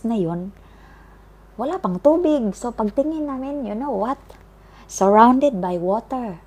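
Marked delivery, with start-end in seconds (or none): 1.5-6.4 alarmed excitement. Retold or imitated. Realizing they are surrounded by water.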